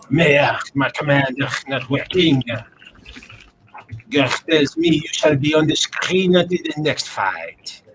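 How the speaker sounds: lightly put-on French accent. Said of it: "You want me to be French".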